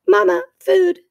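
high, loud chick voice; hungry gosling. A narrator's reading. Gosling begs robot mother for food, high peeping voice. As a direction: beg like a peeping baby bird. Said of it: "said the gosling".

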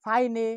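ফাইনে as "fai-ne", final e sounded; mistaken reading. Shown as a demonstration. Teacher listing possible misreadings, ফাইনে with sounded final e. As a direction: misread fine as ফাইনে with an extra "ay" ending. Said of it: "উচ্চারণটা আমরা করতে পারি".

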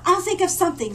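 a bright, curious cub asking; friendly panda voice. Acted. Panda cub greeting the newcomer, eager and high.

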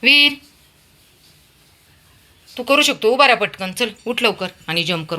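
high, loud cheering; rally him to stand up; encouraging calls. Real, not acted. Cheering Veer to stand and jump, high and loud.

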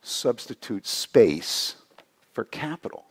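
put-on light Latin American accent, fatherly and calm. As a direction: imitate a Latin American university president leaning back. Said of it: "so he has a Latin American accent".

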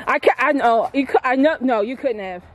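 panting between words after a steep climb; breathless, struggling for air; out of breath. Real, not acted. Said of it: "I'm out of breath".

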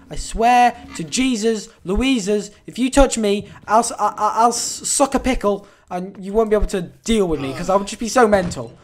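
half-joking loud threat at the monster; mock threat. Real, not acted. Gamer warning the game enemy not to touch him, loudly.

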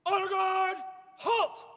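honor guard held, halt snapped; drawn out parade commands. Shown as a demonstration. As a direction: call it out with a pause. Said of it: "rushing each word".

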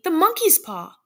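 high, loud outburst; frantic high-pitched cry; wild cry. A narrator's reading. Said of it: "she cried wildly".

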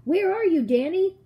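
high, loud searching shout; father calling for his child. A narrator's reading. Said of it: "my father called out".

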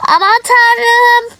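mock shock. Clerk horrified at customers refusing to leave, shocked. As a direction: throw up your hands in dismay.

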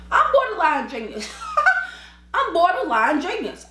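high, laughing boast; laughing self-mockery. Real, not acted.

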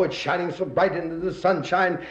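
usual speaking voice

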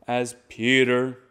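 slow, Peter given a stronger push. Shown as a demonstration. Teacher shows how to bring out Peter, stressed. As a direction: lean into Peter, drawn out. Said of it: "make them a little louder".

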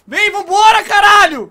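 yelling at the squad to come; loud impatient call; real frustrated yell; shout. Real, not acted. Urging team to leave.

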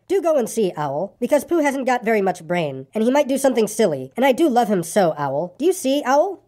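lightly voiced boy, earnest and pleading; hint of an anxious storybook child; worried boy character. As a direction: plead gently for a missing friend.

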